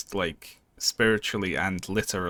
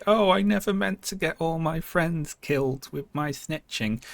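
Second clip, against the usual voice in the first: higher whiny mock lament; mock sad dwarf; 8 semitones higher than usual. Streamer mocks the sad dwarf's confession, high and whiny. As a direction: whine it like a guilty dwarf. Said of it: "that sad dwarf being like".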